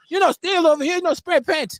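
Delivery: high, loud put-on Asian accent; mock Asian accent. Mocking a Singapore guard in an Asian accent. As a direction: bark it like a strict Asian guard. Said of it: "I've been waiting to break out my Asian accent".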